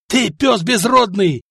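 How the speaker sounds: spat insult. A narrator's reading. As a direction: spit the insult with contempt. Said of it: "выплюнули бояре".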